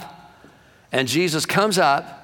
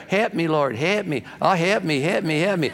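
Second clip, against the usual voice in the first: mock whiny prayer; 4 semitones higher than usual. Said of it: "like some Christians pray".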